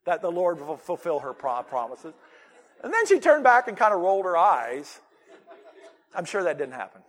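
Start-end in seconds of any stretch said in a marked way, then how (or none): 0.0-2.1 pointed dig. Pretend. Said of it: "looks at ... Zachariah and said".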